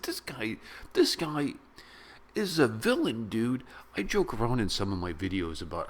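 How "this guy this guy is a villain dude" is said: loud, high excited exclaim; a fan hyped at the villain; excited praise. Real, not acted. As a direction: rave about the villain. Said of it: "I said".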